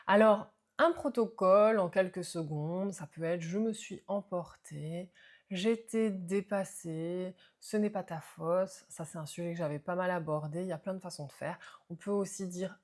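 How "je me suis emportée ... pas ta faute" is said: slow sincere apology. Shown as a demonstration. Repair phrases modelled for a child.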